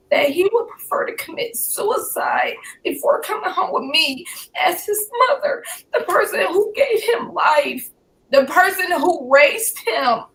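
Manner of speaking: high, anguished pleading; retold screaming. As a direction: plead in disbelief, voice pitched high. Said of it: "I'm just screaming".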